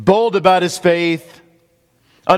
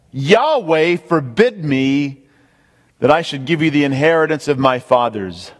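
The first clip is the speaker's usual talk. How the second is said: emphatic quote. Acted. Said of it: "That's an emphatic statement".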